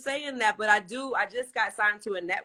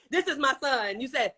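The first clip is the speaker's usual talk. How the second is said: lightly mimicked, higher-pitched presenter; retold TikTok intro; 4 semitones higher than usual. Host mimicking guest's TikTok with his son, playfully higher. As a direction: imitate someone introducing a son on camera. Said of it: "'cause you was like".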